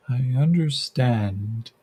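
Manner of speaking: slow, soft, gentle voice in his head; soft gentle creature. Acted. The creature speaks into Yakim's head, slow and gentle. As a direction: speak slowly and gently, like a thought. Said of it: "It's very soft and gentle".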